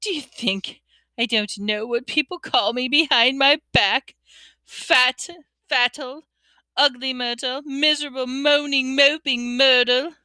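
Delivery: high, tearful self-pity; a wounded girl listing insults; tearful Myrtle. A narrator's reading. Myrtle in tears.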